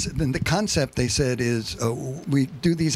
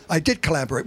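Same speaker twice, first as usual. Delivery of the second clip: P=A; firm; 2 semitones higher, faster than usual. Retold or imitated. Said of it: "very firmly".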